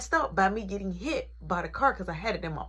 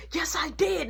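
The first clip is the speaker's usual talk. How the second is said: yelling; 6 semitones higher than usual. Retold or imitated. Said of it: "Now I'm yelling".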